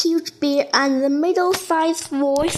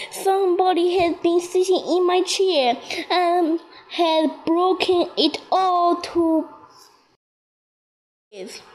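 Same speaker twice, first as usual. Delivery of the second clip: higher, fast little bear; little wee bear voice; 6 semitones higher than usual. A narrator's reading. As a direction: cry it out like a small cub. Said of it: "the poor little small wee bear cried".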